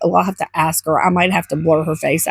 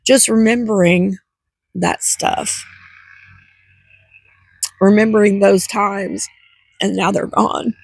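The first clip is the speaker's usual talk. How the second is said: teary. Real, not acted. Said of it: "gonna get me teary".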